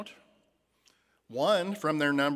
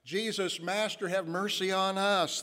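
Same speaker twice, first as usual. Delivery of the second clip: pleading call, a touch raised; crying out for mercy; 5 semitones higher than usual. Acted. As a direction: call out to him, begging for mercy. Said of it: "he begins to cry out".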